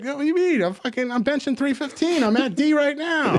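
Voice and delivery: squeaky high bro bragging; mock cocky gym bro. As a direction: brag like a clueless meathead.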